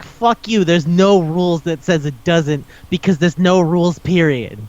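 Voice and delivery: mildly indignant rant at a movie; retold anger. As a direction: argue back, mock-outraged. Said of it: "I was actually angry".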